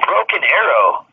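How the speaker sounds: slow, deliberate words for typing down; dictating the code word slowly; slow dictation. Shown as a demonstration. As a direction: spell it out slowly for the notes. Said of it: "You can type this up".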